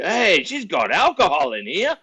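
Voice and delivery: high, loud, drawn-out tattling yell; calling out. Retold or imitated. Drunk cellmate telling on a woman with alcohol, loud mock holler. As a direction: holler it to the officers, slow and high. Cellmate calls out to tell on her.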